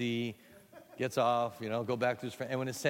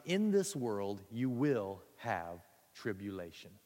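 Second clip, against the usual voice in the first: solemn quote; 2 semitones lower, slower than usual. Acted. Quoting Jesus solemnly.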